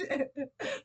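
laughing at the nurse's confusion, high; real laugh. Real, not acted. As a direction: laugh it off brightly. Laughing at the memory.

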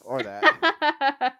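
high squeaky agreement. Real, not acted. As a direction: pitch it way up, loud.

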